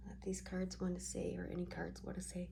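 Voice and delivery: talking through a yawn; words stretched by a real yawn. Real, not acted. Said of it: "Sorry, I'm yawning".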